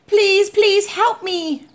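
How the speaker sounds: high, slow, drawn-out begging; desperate plea. A narrator's reading. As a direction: beg desperately for rescue. Boy begs Mister Carp by phone.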